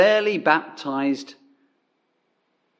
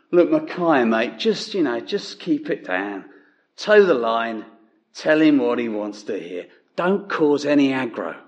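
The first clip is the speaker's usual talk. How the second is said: lightly put-on Cockney accent; matey Cockney, not overcooked; Cockney cab driver. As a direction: do a modest Cockney cabbie impression. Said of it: "he's one of those Cockney cab drivers".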